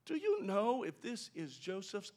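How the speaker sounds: innocent question. Shown as a demonstration. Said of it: "They're not".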